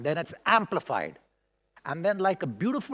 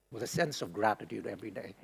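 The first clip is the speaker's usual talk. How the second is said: getting emotional; 9 semitones lower, 9 dB quieter, faster than usual. Real, not acted. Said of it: "sometimes I get a little bit emotional".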